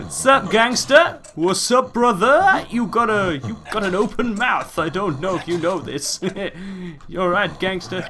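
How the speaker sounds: mock street greeting. Player greeting a creepy patient, mock gangster voice.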